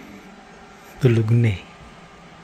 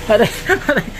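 hit hard crying out; 9 semitones higher, faster than usual. Real, not acted. Hit by side mirror, crying out.

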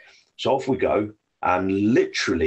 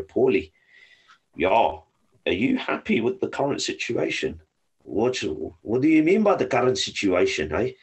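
put-on South African accent; 3 semitones higher than usual. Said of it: "I'm trying to do a South African accent".

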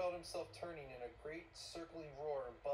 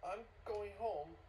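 high, slow, upset quaver; 7 semitones higher, 6 dB louder, slower than usual. A narrator's reading. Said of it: "quavered Missus Bowles".

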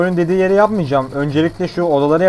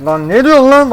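angry yell; 8 semitones higher, 7 dB louder than usual. Real, not acted. Angry at game characters.

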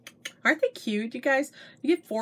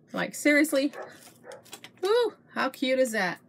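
higher, excited gushing over a headband; gushing silly voice; 4 semitones higher than usual. Real, not acted. Vlogger showing viewers a cute headband, gushing high. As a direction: squeal it out like a delighted shopper. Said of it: "I don't know why I'm talking like that".

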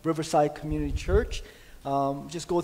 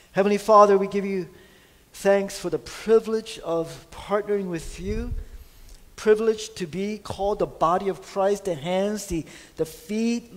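fervent prayer; 2 semitones higher than usual. Acted. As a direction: lift the prayer up with conviction.

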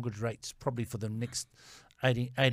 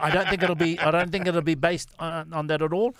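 laughing while talking; 4 semitones higher, 6 dB louder than usual. Real, not acted. Talking through laughter at own jibe.

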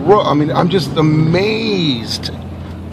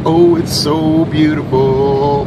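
dreamy gushing; 2 semitones higher, 4 dB louder, much slower than usual. Pretend. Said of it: "Be like".

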